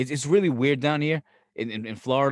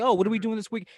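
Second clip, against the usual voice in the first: much higher, singsong imitation of the wife; mock wife; 9 semitones higher than usual. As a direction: put on a cheery, nagging voice. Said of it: "It's just like".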